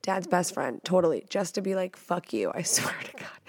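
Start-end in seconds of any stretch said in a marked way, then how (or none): 2.0-3.4 whispered fake spite, half laughing; mock whisper. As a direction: hiss it like a playful threat. Acted retort at best friend's dad.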